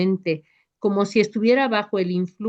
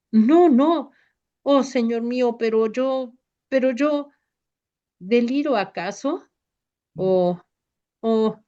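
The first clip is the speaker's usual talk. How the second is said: weeping plea; 3 semitones higher than usual. A narrator's reading. Pedro on the ground weeps at Jesús' feet. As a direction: sob out the denial in despair. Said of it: "llora a los pies de Jesús".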